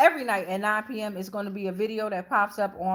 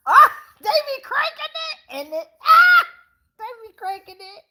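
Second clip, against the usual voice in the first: very high squealing laugh through the words; helpless laughter; 9 dB louder than usual. Real, not acted. Laughing to her viewers about UK accent switching. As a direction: laugh till it nearly turns to tears.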